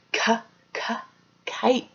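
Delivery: soft breathy "k, k" then "kite"; k sound drill. Shown as a demonstration. Teacher leading kids in "k, k, kite". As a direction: puff "k" twice, then "kite". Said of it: "let's do the K sound together".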